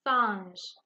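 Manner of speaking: singe with its nasal "in" vowel clearly sounded; sound demonstration. Shown as a demonstration. Teacher showing pupils the sound in singe, nasal vowel demonstration. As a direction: let the "in" in singe be heard. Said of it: "vous pouvez aussi entendre le son A".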